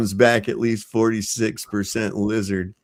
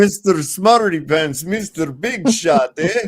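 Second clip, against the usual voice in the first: mock Jewish accent; 4 semitones higher, slower than usual. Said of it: "that sounded Jewish".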